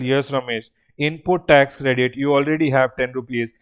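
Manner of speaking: a hint of an official granting the credit; government voice. Teacher voicing government to Ramesh, low and calm. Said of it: "Government will tell".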